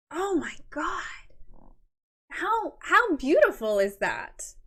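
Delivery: high, delighted gush. Real, not acted. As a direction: overflow with delight at the picture. Gushing over the photo.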